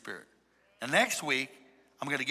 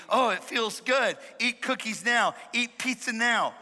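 higher, slower, lightly craving voice; voice of the body; 5 semitones higher, slower than usual. Acted. Preacher playing the hungry body to the church, lightly demanding. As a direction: push it up higher, slow and demanding. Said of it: "your body will be".

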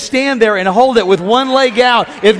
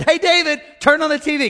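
higher, calling out to David; dad calling son; 6 semitones higher than usual. Retold or imitated. Dad calling son David to turn on TV. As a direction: call the boy over like a dad. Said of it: "My dad said".

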